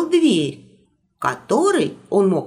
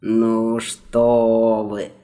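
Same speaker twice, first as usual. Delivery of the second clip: embarrassed; 8 semitones lower, much slower than usual. Acted. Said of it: "смутился магистр Крабля".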